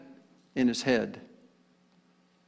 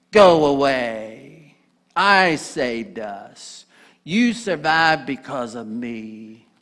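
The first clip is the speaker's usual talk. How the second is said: Gollum voice; much slower than usual. Acted. Gollum replies to Smeagol.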